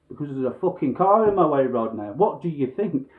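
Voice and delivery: loud exasperated snap at the instructor; imagined furious comeback, loud; angry retort. Retold or imitated. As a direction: let rip at him, fed up. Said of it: "I didn't say it like that".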